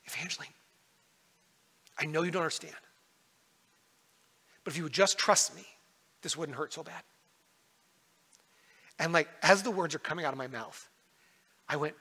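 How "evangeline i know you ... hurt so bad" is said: gentle plea. Retold or imitated. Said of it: "looking her in the eyes and saying".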